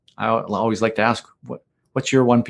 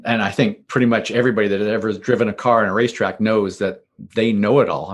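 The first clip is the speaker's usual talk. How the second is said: sarcastic. Pretend. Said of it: "being a little sarcastic there".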